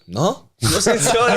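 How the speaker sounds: high, cheeky mock defiance; defiant refusal. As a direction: flippantly refuse to apologise, pitched well up. Retold refusal to apologise.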